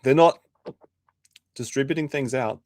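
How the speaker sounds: mope it like a sulking streamer; mock sad. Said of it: "he's so sad in that clip".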